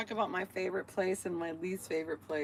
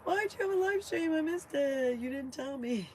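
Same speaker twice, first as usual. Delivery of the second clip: higher whiny viewer, a little louder; complaining viewer; 8 semitones higher, 6 dB louder than usual. Retold or imitated. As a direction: play a fan who missed the stream. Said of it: "I get people like".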